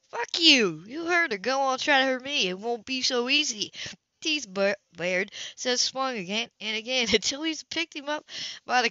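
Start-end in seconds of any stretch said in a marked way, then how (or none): 0.1-3.7 defiant taunt. Acted. Boy dares the grown man to hit him, angry taunt. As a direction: dare him to fight, furious.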